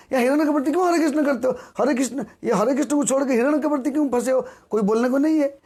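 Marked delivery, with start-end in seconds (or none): 0.1-4.5 fast, higher-pitched mock scolding; acted reproach. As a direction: take a straying devotee to task, quickly. Imagined friend scolds the straying devotee. (तेज़, ऊँचे सुर में उलाहना देते हुए)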